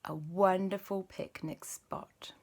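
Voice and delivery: slow soft whisper. Acted. Aunt whispering the story slowly to the boys. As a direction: let it fall to a hush.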